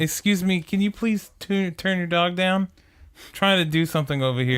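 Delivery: complaining neighbor. Pretend. Asking the neighbor to turn the dog down, mock indignant. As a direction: play the put-upon neighbor, voice lifted high. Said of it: "go knock on the neighbor's door".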